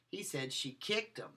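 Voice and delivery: kicked punched with a falling tune; stress on KICKED. Shown as a demonstration. Lecturer showing students stress on kicked. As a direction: hit the word kicked, the rest light. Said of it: "I changed the emphasis of the word".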